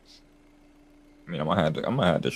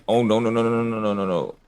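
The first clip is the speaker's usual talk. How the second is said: panicked; 3 semitones higher, 5 dB louder than usual. Real, not acted. Missed his deals, panics.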